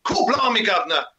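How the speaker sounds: hammed-up Mockney catchphrase; Mockney accent. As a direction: put on a mock Cockney accent. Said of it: "like the Mockney accent".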